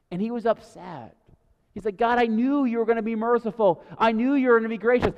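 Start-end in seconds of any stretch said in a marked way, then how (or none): 2.0-5.1 a hint of a whining toddler; toddler tantrum. Jonah sulking at God, lightly voiced toddler complaint. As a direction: lightly whine it like a sulking child. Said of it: "this toddler of Jonah throwing a temper tantrum".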